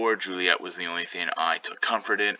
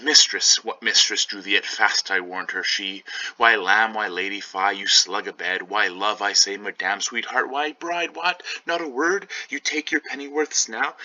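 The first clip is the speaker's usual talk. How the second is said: nurse calling out; 2 semitones higher than usual. Acted. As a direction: rouse the sleepy girl, nagging. Nurse waking sleeping Juliet.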